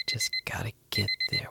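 a far-off, warped echo of his own words; echoing inner voice. Acted. Alone in the dark, his thought echoing back, warped.

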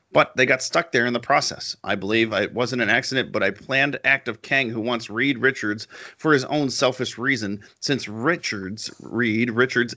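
eager nerdy reading voice; nerd voice. Shown as a demonstration. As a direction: read it like an excited geek. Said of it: "in my nerd voice".

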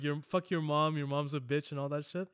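ordinary talk, nothing marked

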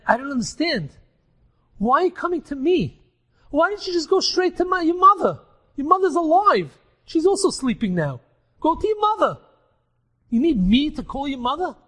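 a bewildered man sending his friend elsewhere; exasperated rebbe. Acted. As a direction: push back, baffled and impatient. Dead father confronts friend in dream.

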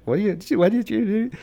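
very high panicked question; freaking out. Retold or imitated. Scared kid panicking at mom, very high-pitched. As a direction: shriek it in panic. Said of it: "so I start freaking out".

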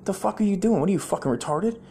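mock outraged bank customer. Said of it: "You're like".

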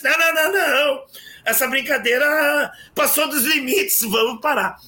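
imitating the boy crying foul; mock protest.

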